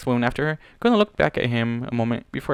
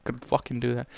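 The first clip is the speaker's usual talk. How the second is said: ordinary delivery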